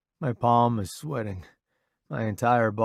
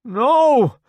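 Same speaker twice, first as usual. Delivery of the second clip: sharp shout; 14 semitones higher, 11 dB louder than usual. Acted. Yanking away, refusing.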